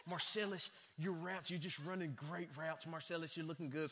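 imitated Texan coach, lightly drawn; Texas accent. Texas coach praising Marcellus on his routes, Texas accent. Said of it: "He had this accent like this".

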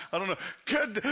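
ordinary talk, nothing marked

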